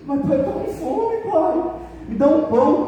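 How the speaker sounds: put-on hungry little boy pleading with his drunk father; pleading hungry child. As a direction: beg for bread like a small hungry boy.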